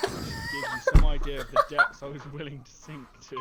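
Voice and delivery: high, loud laughing through the words; can't hold the laugh in; reading while cracking up. Real, not acted. Reader cracks up mid-sentence.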